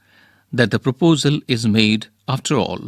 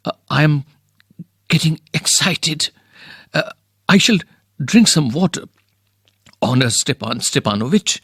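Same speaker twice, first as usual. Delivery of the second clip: halting, stammering neighbour; lightly voiced nervous landowner; nervous suitor. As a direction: fumble the words like a flustered suitor. Lomov nervously begins his request.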